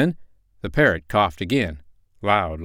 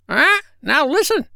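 very high squawky parrot; a proud, cheeky parrot; 6 dB louder than usual. Acted.

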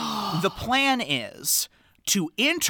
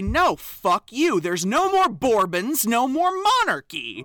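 defiant; 4 semitones higher than usual. Retold or imitated. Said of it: "trying to say".

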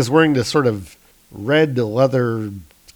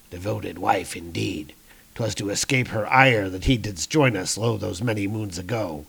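low, softer echo of "devoted wife"; dry, lightly theatrical rebuttal; sceptical comrade; 3 semitones lower, 5 dB quieter than usual. Acted. Comrade disputing the warrior's devoted-wife excuse, low and sceptical.

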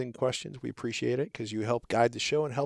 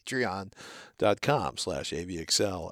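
slow, each letter spelled out; over enunciating; 3 semitones lower than usual. Shown as a demonstration. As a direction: say it slowly and clearly. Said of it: "Let me say that slowly".

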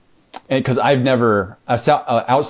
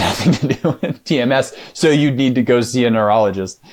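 retelling the doctor's words through bursts of laughter; laughing while quoting; 4 semitones higher than usual. Retold or imitated. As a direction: laugh in disbelief as you quote the doctor.

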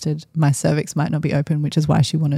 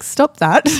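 sharp order; 9 semitones higher, 6 dB louder than usual. Retold or imitated. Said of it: "And I'm like".

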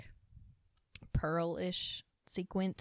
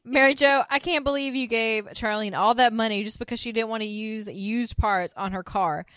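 haughty loud scolding; 3 semitones higher, 8 dB louder than usual. Retold or imitated. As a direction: look down on her, loudly. Voicing Suzanne's scolding.

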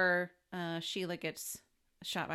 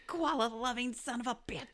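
higher-pitched hammed-up insult; mock fighting; 5 semitones higher than usual. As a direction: spit out a playful fake insult. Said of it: "act like we're fighting".

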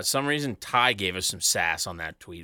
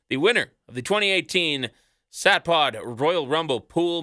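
hyped announcer; 7 semitones higher, 5 dB louder than usual. Real, not acted. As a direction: build up the big reveal. Hyping the contest winner reveal.

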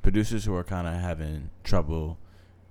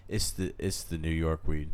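stoned; 3 dB quieter, slower than usual. Real, not acted. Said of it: "creeping up on me".

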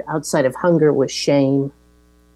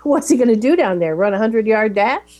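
sarcastic mockery; 4 semitones higher than usual. Maggie mocking Brick's crutch.

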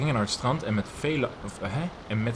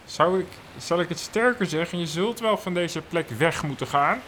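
dramatic; 4 semitones higher, 7 dB louder, slower than usual. Acted. Acting dramatic farewell scene.

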